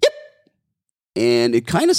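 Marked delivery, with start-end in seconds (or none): 0.0-0.1 puppy yelp. Retold or imitated. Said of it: "the other puppy yelps".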